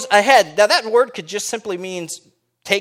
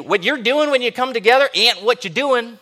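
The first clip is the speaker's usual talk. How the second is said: lightly put-on Southern accent for the apostle; mock Southern accent; 3 semitones higher than usual. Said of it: "He had a southern accent".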